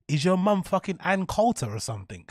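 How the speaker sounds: laughing through a mock question; laughing jab. Real, not acted. Streamer laughing while roasting a racist chatter. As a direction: tease him while cracking up.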